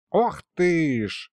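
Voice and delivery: slow, drawn-out delighted gasp; delighted exclamation. Acted. Old Mikhalych admiring the pregnancy news, drawn-out delight. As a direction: marvel at the news. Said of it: "восхитился Михалыч".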